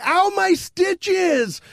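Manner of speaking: high, slow hammed-up cry of pain; faking an injury to a shop owner, drawn-out high yelp; mock pained yelp. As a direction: yelp it out like it really hurts. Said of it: "the first thing I yelled out".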